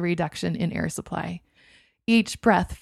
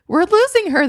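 much higher, louder cry; more urgent alarm; 12 semitones higher, 8 dB louder than usual. A narrator's reading. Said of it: "repeated in urgency".

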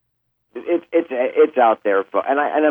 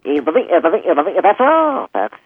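later Porky Pig; 6 semitones higher, much slower than usual. Shown as a demonstration. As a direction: make the pig close and tender. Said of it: "Chuck Jones, Porky Pig".

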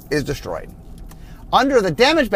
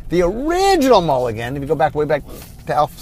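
talking through hiccups; speech broken by hiccups; hiccuping. Real, not acted. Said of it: "sorry, I have the hiccups".

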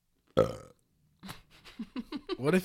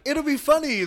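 high mock voice, louder; mocking friend; 9 dB louder than usual. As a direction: mimic her saying it mockingly. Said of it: "You're like".

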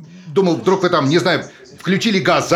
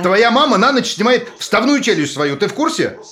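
higher, teasing jokey lift; mocking joke; 7 semitones higher than usual. Husband teasing about her mother to lift her mood, mocking. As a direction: make her laugh with a crude joke. Husband joking to cheer wife.

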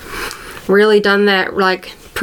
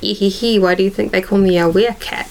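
sly little giggle, a touch lower; sly nasal snickering whisper; 4 semitones lower than usual. Retold or imitated. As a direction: tease them like a mischievous cat boy. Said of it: "being like".

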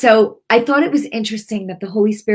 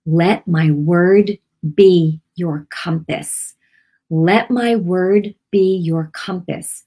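Holy Spirit's word; slower than usual. Retold or imitated. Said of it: "I heard the Holy Spirit say".

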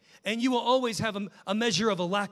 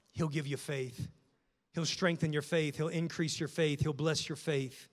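gentle encouragement; 3 semitones lower than usual. Real, not acted. Preacher gently telling friends low on faith to ask, tender. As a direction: settle them with tender promise.

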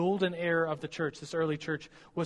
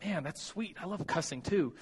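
mock delight. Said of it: "I'm like".

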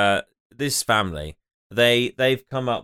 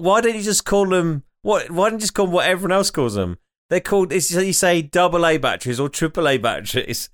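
exasperated; 4 semitones higher than usual. Retold or imitated. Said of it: "and I said".

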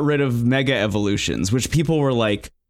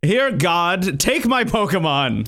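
laughing mock offering; 6 semitones higher, slower than usual.

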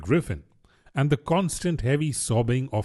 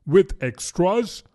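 slow, higher-pitched worried question; a little anxious; 8 semitones higher, 3 dB louder, slower than usual. A narrator's reading. Mock Turtle asks Alice about her day school, mildly anxious. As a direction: draw it out with mild unease. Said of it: "asked the mock turtle a little anxiously".

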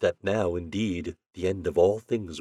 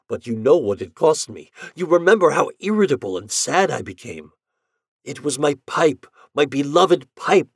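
raised, earnest pleading voice; husband confessing his hidden pipe; husband's confession; 5 semitones higher, 4 dB louder than usual. Acted. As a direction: explain sheepishly and beg pardon. Armand explains his secret smoking.

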